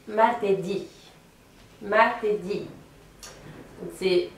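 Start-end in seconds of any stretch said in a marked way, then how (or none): 0.1-2.7 martedì with the weight on the closing DÌ; accent the last syllable of martedì; stress on final syllable. Shown as a demonstration. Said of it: "même principe avec le mardi".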